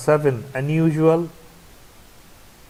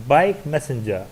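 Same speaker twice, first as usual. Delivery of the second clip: BIKE stressed, messenger lighter. Shown as a demonstration. Teacher showing a compound noun, stress on BIKE. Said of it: "the stress is on the first one".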